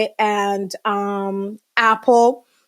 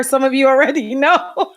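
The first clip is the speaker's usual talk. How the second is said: laughing; 3 semitones higher than usual. Real, not acted. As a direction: laugh breaking into the words. Laughs at teasing guess.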